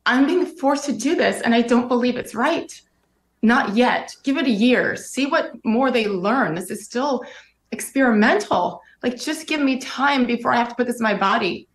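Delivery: fighting back tears while retelling; emotional, near tears. Real, not acted. Guest telling the host about the vaccine day, near tears. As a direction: voice tight with real emotion, close to crying. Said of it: "See, I get emotional again".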